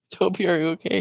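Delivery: high, loud call across the dock; yelling across. Retold or imitated. Woman yelling to Toby after he falls in the water, high and loud. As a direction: call out anxiously to the boy in the water. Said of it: "He's yelling".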